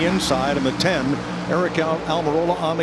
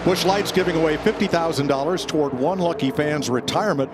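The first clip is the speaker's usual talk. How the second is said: ad read. Acted. Reads sponsor ad over music.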